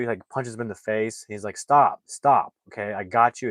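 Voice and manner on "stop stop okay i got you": urgent shout. Retold or imitated. Restraining the killer, retold quote.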